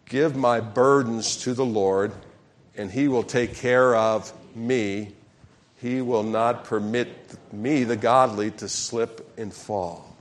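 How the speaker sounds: slow, deliberate personal reading; reading scripture aloud. Shown as a demonstration. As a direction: lead the verse slowly with "my". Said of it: "Let's use the personal pronouns".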